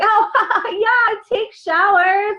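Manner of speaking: imitated embarrassed customer, laughing mid-line; sheepish laugh. Customer admits skipping skincare.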